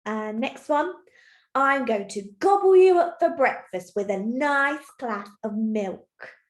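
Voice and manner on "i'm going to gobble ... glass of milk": mildly menacing troll, loud at first; angry shouting troll. Acted. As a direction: threaten like a storybook troll. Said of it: "he is still very angry and shouting".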